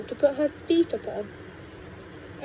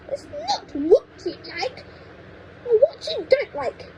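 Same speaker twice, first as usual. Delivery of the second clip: snapped; 11 semitones higher than usual. A narrator's reading. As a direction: snap at the boy. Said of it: "Grandma snapped".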